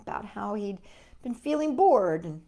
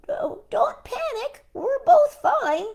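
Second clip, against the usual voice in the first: Earl voice; 6 dB louder, slower than usual. Acted. Earl reassuring Mom.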